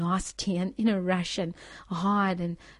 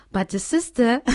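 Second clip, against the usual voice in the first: breaking into delighted laughter mid-sentence; laughing with joy; 3 semitones higher, 8 dB louder than usual. Real, not acted. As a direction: laugh through the good news, louder and higher. Joyful report of the miracle.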